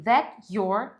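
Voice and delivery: "that your" with T and Y kept apart; held T, no merging. Shown as a demonstration. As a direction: say "that your" as "that' yor", no ch. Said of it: "sem esse fenômeno acontecendo".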